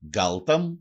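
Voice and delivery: γκάλταμ with an a in the first syllable; dialect pronunciation. Shown as a demonstration. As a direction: say γκάλταμ as galtam, keeping the l. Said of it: "Προφέρεται και ως".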